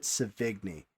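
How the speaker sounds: Savigny with a hard g, ending in "nee"; personal pronunciation. Shown as a demonstration. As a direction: say Savigny as "suh-VIG-nee". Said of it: "I've always pronounced it".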